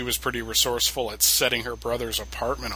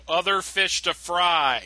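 mock flat retort; 5 semitones higher, much slower than usual. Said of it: "I always wanna go".

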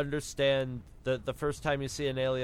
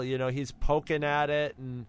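normal talking voice

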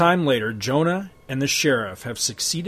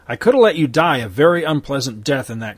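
louder, smug turncoat lawman; sneering sheriff; 5 dB louder than usual. Acted. Crooked sheriff holding Hex at gunpoint, smug. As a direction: lord it over him.

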